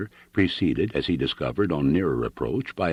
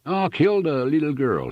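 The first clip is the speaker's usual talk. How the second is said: put-on German accent calling out; 10 semitones higher than usual. A narrator's reading. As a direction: call out to the little girl. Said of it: "he cried".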